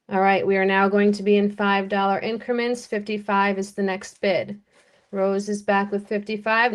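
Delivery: quick auctioneer patter. Acted. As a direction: rattle off the bids fast. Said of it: "Now I really sound like an auctioneer".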